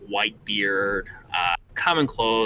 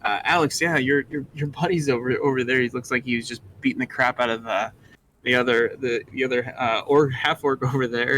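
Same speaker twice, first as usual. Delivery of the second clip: Harley; 2 semitones higher than usual. Acted. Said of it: "Harley's like".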